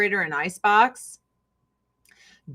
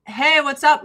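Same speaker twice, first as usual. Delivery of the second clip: casual greeting; 6 semitones higher, 6 dB louder than usual. Retold or imitated. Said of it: "my family is monotone".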